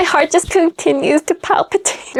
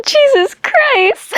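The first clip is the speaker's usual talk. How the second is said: stunned; 13 semitones higher, much slower than usual. Real, not acted. Shocked reaction to the scene.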